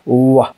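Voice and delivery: "Wa" gliding off rounded lips; teacher's isolated "Wa"; sound demonstration. Shown as a demonstration. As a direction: sound out "Wa" on its own. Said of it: "the two lips are touching".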